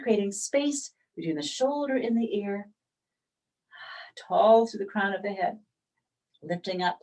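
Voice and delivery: unhurried yoga teacher, long pauses between phrases; spacious, breath-led instruction; guided yoga meditation. Real, not acted. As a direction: guide them gently into breath and stretch. Leads yoga breathing practice.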